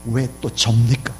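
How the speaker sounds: loud, high-pitched outburst of complaint; exploding in protest. Acted. Believer protesting to God over hardship, exploding in loud complaint. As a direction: argue it out loudly with God, imitating the aggrieved. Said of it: "폭발하면서".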